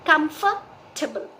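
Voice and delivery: Comfortable said slowly as KUM-fuh-tuh-bul; drawn-out KUM-fuh-tuh-bul; slow model. Shown as a demonstration. Teacher repeating comfortable slowly for students. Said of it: "it is".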